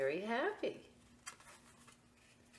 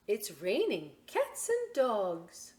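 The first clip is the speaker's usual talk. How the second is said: mom's voice; 4 semitones higher, 4 dB louder, slower than usual. Acted. Mom voiced in picture book.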